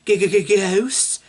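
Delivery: mock-scared stutter on "G-g-g-ghosts"; stammering fright. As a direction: stammer the first sound as if spooked. Stuttering scared Scooby and Shaggy line.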